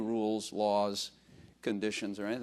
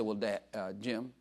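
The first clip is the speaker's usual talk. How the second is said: quoting the sister; 3 semitones lower, 6 dB quieter than usual. Retold or imitated. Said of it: "She said".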